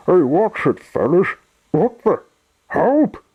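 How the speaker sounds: startled, high-pitched cries for help; alarmed cry. A narrator's reading. Sunshine is shoved from behind by two tugs, alarmed.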